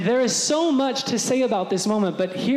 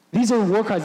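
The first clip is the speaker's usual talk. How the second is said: louder repeat, punching it; emphatic; 4 dB louder than usual. Shown as a demonstration. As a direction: declare it firmly.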